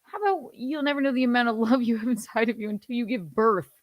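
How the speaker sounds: a lightly put-on, sneering take on her line; mild mocking impression of the singer. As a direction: parrot her line back with scorn, a touch fast. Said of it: "listen, I'm not a mom".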